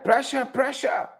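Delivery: high, slow, drawn-out crab voice; crab man voice. Acted. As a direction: stretch each word like a crab man. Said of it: "In my crab man voice".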